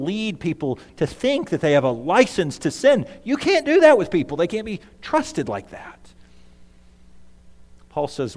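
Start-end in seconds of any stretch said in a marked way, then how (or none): 3.2-6.0 higher, fast and worried, then dropping off; a hint of an anxious rule-keeper; fretting legalist. Pastor mimics a legalist to his listeners, high and fast. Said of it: "a legalistic type of person who fears".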